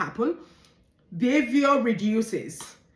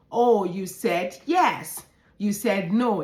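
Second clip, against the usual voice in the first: put-on slow, gentle affirmation for a child; gentle affirming; 2 semitones lower, slower than usual. Shown as a demonstration. Teacher affirming a nodding child, slow and gentle. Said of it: "all you need to do is".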